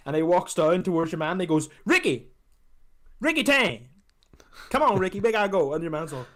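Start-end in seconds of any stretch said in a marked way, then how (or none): 1.9-5.7 higher calling-out yell; mock shout. Friend imitating Chris Tucker calling out to Ricky, mock shout. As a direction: call across the room to him.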